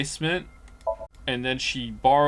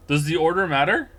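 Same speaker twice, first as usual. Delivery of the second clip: louder, worried repeat of the question; alarmed; 4 semitones higher, 5 dB louder than usual. Real, not acted. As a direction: ask it again in sudden alarm. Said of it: "Oh no".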